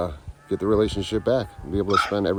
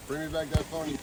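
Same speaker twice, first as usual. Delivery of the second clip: mock angry yell; 7 semitones higher than usual. Real, not acted. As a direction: yell after the phone thief, stretching it. Monkey stole phone.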